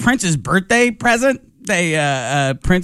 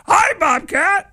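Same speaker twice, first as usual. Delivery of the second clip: high, slow puppet voice; drawn-out high puppet hello; Grover; 11 semitones higher, much slower than usual. Retold or imitated. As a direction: greet like a furry children's-show puppet, pitched way up. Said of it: "the guy puts Grover on".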